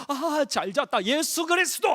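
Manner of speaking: high, stretching wake-up voice; acted waking up. Shown as a demonstration. Preacher demonstrating a morning routine on waking, high waking-up voice.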